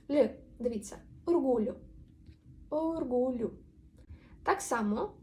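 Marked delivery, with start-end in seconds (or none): 2.7-3.5 slow, drawn-out demo. Shown as a demonstration. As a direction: say оргулю slowly for learners. Slow repeat of example word.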